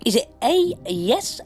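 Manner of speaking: loud, high quiz-host read; hammed-up game show host. Quiz host reading options.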